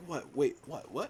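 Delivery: imitating a confused double take; baffled reaction. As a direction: play someone caught totally off guard. Imagines actor's baffled reaction to coincidence.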